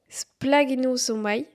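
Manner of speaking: splagnosomai spelled out slowly, syllable by syllable, splag-no-so-mai; slow, deliberate splagnosomai with a French accent; Greek word, apologetic accent. Shown as a demonstration. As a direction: sound out splagnosomai carefully, unsure of the Greek. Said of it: "pardonnez-moi pour mon accent".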